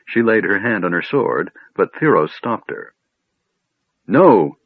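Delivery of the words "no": a sharp, louder no; sudden no. Acted. Theros stopping Laurana from drawing her sword, sharp and sudden. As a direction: cut her off fast. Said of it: "he said suddenly".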